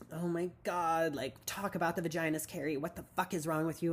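a touch of angry boss, imitated; imitated anger. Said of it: "why is this woman so angry".

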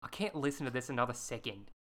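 put-on lightly done Australian accent as Gemma; a hint of an Aussie teen, quiet and fed up. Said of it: "let me get into my Australian accent".

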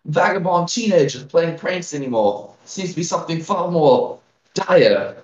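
put-on frail old village elder, worried; a hint of a tiny old lady pleading; very old woman. GM voicing elder Grilda.

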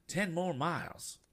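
put-on a high, slow voice for the old gentleman; high eccentric old gent. Old passenger telling Tom the miles, high and slow. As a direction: announce it like a fussy passenger. Mr. Damon speaks in the car.

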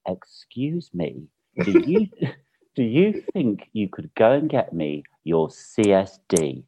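slow, deliberate mock politeness; retold smug request, drawn out; pointedly polite demand. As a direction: spell out the request, pleased with your cleverness. Thought I was really clever.

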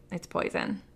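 breathy, unvoiced thought; a hint of dread, whispered; whispered fear. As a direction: whisper the suspicion. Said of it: "I was like".

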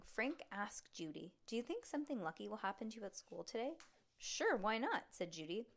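expressive read-aloud with lively dialogue; story narration. Acted. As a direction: read a chapter book to a child. Reads story aloud to child.

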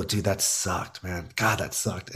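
low, quiet, slow and deflated; mild dejected groan. Retold or imitated. Comic to himself after bombing, deflated and quiet. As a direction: sigh it out like a beaten comic.

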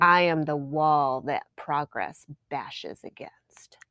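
slow, husky mock-dramatic declaration; quoted TV character. Fan quoting a favorite show's line, slow and dramatic. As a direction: lightly imitate a stoic screen hero, drawn out. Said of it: "he says in that show".

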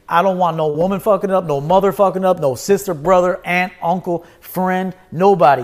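heated list that peaks on nobody; building anger. Real, not acted. Warning family off his creation, building to a loud nobody.

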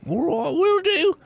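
put-on high, slow, loud drunk voice; loud high-pitched drunk sign-off; drunken goodbye. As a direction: call out a tipsy farewell, drawn out. Drunk character takes his leave.

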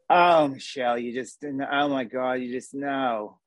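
put-on light Jersey accent, disappointed mother; Jersey mom. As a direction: sigh out a Jersey mom's disappointment. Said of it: "my Jersey accent combined with, like, my own mother".

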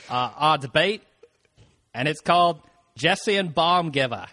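lightly voiced Boston accent as a mock senator; a hint of a Boston senator addressing the Senate; mock senator addressing the chamber in a mild Boston accent. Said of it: "I'm gonna try to do the Massachusetts one".

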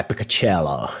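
Picacciello in a mock American accent. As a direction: mimic how an American says Picacciello. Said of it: "like an American guy".

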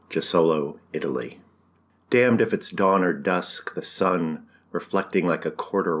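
deliberate poem reading, lines set apart by pauses; poetry reading. Acted. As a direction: savor each line as a poem. Poet reads his own poem.

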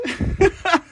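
a short, high burst of laughter. Real, not acted. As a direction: crack up at the viewer's joke. Laughs at viewer joke.

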